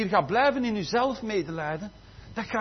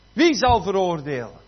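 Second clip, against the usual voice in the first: Wie zal veroordelen? proclaimed loud with Wie hit hard; preached verse; 6 dB louder than usual. Shown as a demonstration. Preacher reading the verse aloud to the church, loud and emphatic. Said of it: "Heb ik dat al gezegd?".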